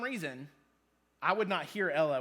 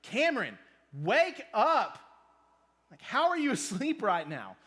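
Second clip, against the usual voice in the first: a real yell across the room at the husband, higher and louder; yelling wife; 4 semitones higher, 4 dB louder than usual. Retold or imitated. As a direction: call him awake, exasperated. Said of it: "Jen yelling at me from across".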